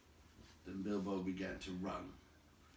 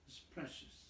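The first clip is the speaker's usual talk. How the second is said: breathless unvoiced whisper of a wretched creature; whispered Gollum hiss; 6 semitones higher, 10 dB quieter than usual. A narrator's reading. Gollum mourning his lost treasure, whispered. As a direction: hiss it soft and grieving, barely voiced.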